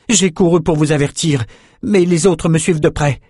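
high, distressed guard's report; au bord des larmes. A narrator's reading. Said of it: "des larmes aux yeux". (garde bouleversé, voix haute)

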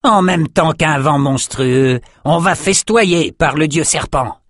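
high, slow excited cheer; rally the crew for a feast; high, slow raider cheer. A narrator's reading.

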